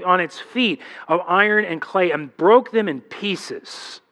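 slow, solemn Bible reading; preacher reading Daniel aloud; scripture reading. Acted. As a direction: read it with weight and awe. Reads scripture passage.

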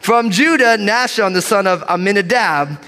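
confident roll call of Hebrew names; bold reading. Real, not acted. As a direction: draw each name out, weight on its last syllable. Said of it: "gonna read these names with boldness".

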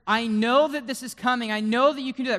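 loud, high, fervent declaration; impassioned prayer, ringing with certainty; expectant faith. Acted. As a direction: proclaim it with full conviction. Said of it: "Remember the expectancy that we said? The faith?".

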